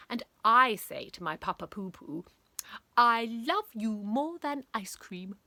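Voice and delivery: a hint of a syrupy little boy; soppy son. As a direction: gush it out to your Papa Poo-Poo. Son declares love to his father.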